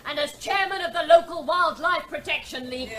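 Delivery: angry threat. Acted. Chairwoman threatens official.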